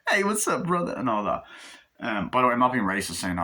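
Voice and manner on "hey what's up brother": actor impression. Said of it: "doing the impressions of the, uh, actors".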